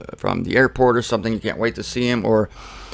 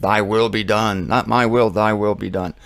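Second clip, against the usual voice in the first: a touch of prayerful; 4 semitones lower than usual. Retold or imitated. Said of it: "but I said".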